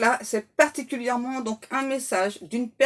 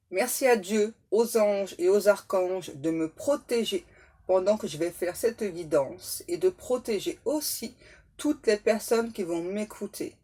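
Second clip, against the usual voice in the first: protection prayer; 3 semitones lower than usual. Acted.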